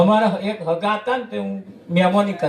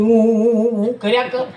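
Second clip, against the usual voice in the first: fake sobbing hum. Shown as a demonstration. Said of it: "આમ ઘૂંઘતો તો કે હું".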